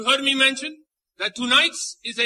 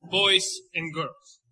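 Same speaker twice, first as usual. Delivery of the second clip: showman host with Latin flair; lucha libre announcer. Acted. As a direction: welcome the crowd like a ringside emcee. Host greets audience in Spanish.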